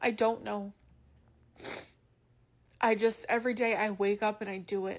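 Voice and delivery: emotional, choking up, words catching. Answering a question many people have asked her, getting emotional. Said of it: "I'm getting emotional speaking about it".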